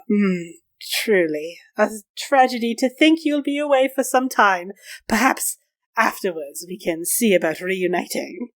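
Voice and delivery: mannered, insinuating farewell; smarmy flirtation. Acted. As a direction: lament the parting with a leer. Leering character flirts over parting.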